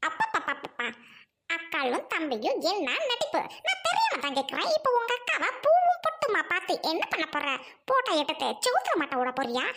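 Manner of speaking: mocking laugh. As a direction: laugh at their drama. Wife mocks siblings' tears. (ஏளனச் சிரிப்புடன் கேலி)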